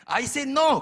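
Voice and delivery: high, loud, emphatic shout; comically forceful declaration; firm refusal. Retold or imitated. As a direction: put your foot down at full volume. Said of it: "단호하게. 내가 확실하게 말을 해야지".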